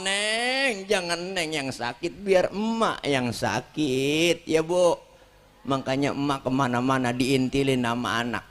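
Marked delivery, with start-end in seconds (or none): 0.0-5.0 tender mother. Retold or imitated. Mother tending sick child.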